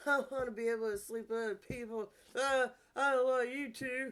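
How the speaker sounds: high, loud, taunting put-on mocking voice. Acting out what an ex says, mocking voice. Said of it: "I'm so sorry about my mocking ass voices".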